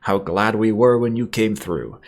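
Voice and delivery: high, whining English toff; Calvert Smythe. A narrator's reading. Officer paying the pilot, whining and high-pitched. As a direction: gush in a hammed-up old English whine. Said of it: "he whines".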